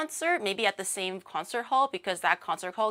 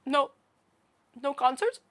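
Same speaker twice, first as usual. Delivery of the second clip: mock sad fan; 4 semitones higher than usual. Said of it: "he looked so sad".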